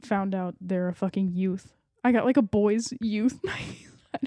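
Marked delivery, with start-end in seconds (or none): 2.0-4.3 laughing. Real, not acted. Laughing confession, whispered.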